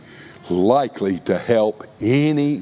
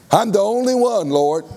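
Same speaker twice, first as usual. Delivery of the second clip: mock self-pity; 10 semitones higher than usual. Mimicking Elijah's self-pity.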